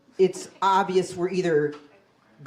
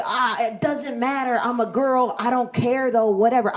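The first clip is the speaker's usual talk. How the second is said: dazed protest; 5 semitones higher than usual. Retold or imitated. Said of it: "And I try to say".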